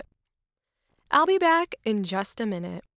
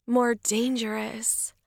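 whisper. Acted. Seductive vampire costume.

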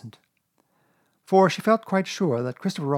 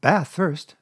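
bright raised motherly order, louder; cheerful Kanga; 6 semitones higher, 6 dB louder than usual. A narrator's reading. Kanga ordering bath before bed, cheerful. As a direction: cheerily announce it to a child. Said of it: "said Kanga in a cheerful voice".

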